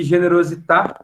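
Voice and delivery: "generosità" in Italian, stress on the final à; Italian pronunciation. Shown as a demonstration. Teacher reading the Italian word aloud, Italian pronunciation. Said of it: "no italiano".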